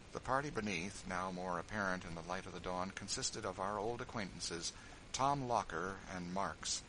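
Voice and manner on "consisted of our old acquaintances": ordinary talk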